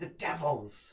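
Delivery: disembodied hissing hag voice. Game master voicing a disembodied hag during a game: hissing hag's voice. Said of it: "Hisses the hag's disembodied voice".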